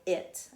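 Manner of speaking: "it" pushed out as one syllable; "it" as a single-syllable demonstration; one breath. Shown as a demonstration. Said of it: "I pushed it out in one breath".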